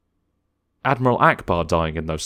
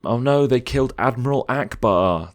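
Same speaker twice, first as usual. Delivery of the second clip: mock whiny fan; 6 semitones higher than usual. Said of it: "That's me, if I'm a loser".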